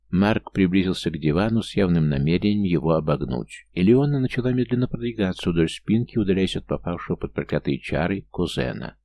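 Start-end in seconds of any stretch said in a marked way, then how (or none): none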